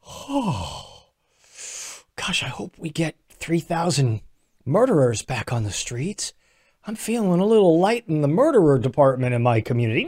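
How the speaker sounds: a sugary sarcastic townsperson; mock Pennsylvania resident. Pennsylvanian waking up, sarcastically, in a soft mock voice. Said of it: "They're waking up, they're going".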